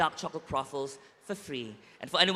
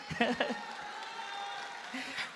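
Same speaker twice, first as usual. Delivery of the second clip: shaky sigh; 8 semitones higher, 9 dB quieter than usual. Real, not acted. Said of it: "I'm trying not to cry".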